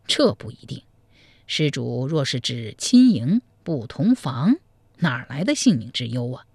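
a sly monk confiding gossip; old monk. Acted. Monk tells the groom about the bride, low and measured.

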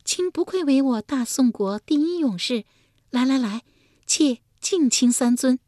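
high feminine voice, fondly praising; tender admiration. A narrator's reading. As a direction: coo admiringly as the concubine, pitched high. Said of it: "一脸柔情地说道".

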